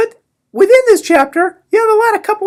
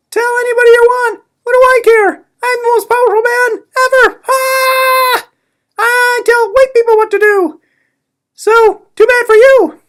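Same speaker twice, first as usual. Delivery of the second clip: higher, boastful mock tyrant voice; pompous Bledsoe voice; 6 semitones higher than usual. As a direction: play the power-mad boss, gloating.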